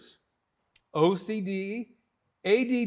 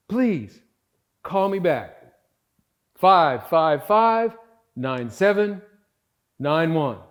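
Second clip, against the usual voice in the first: voicemail message; 6 dB louder than usual. Real, not acted. Leaving a voicemail.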